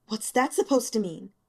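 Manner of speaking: sharp, angry spit of words; spat angrily. Acted. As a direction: snap the question back at him. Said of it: "she spat".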